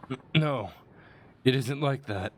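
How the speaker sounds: high, stammered acted denial; defensive attacker. Voicing the attacker denying accusation.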